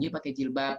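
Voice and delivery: softly coaxing; gentle invitation. Shown as a demonstration. Teacher shows kids how to invite a friend, gentle coaxing. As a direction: invite her kindly, quietly. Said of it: "dinasihatin pelan-pelan".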